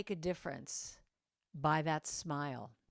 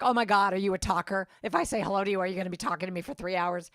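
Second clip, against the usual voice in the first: loud, mildly panicked reaction; mock panic; 6 dB louder, faster than usual. Seatmate dreading a three-hour talker, mock panic. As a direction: voice a seatmate dreading chit-chat. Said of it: "total panic go over their faces".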